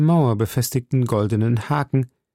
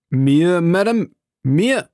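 higher, louder, incredulous cry; indignant exclamation; 7 semitones higher, 4 dB louder, slower than usual. A narrator's reading. Felton answers Milady's offer of a reward, crying out indignantly. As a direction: read it as a startled outcry. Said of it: "rief Felton".

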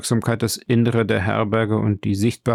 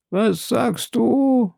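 erschrockene Frau; 12 semitones higher, much slower than usual. A narrator's reading. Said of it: "fragte die Frau, bleicher als eine Tote".

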